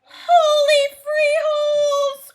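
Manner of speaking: high, loud, slow exclamation; excited cry. Acted. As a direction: belt it out in alarm. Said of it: "cried Scipito".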